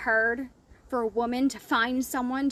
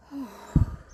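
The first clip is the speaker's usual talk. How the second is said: deflated sigh. Retold or imitated. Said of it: "And she went".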